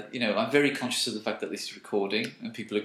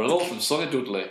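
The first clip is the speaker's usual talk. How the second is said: lightly sarcastic mock hello; sarcastic greeting. Host imitating people who say sunny, lightly sarcastic. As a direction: say the greeting with irony. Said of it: "it's usually sarcastically".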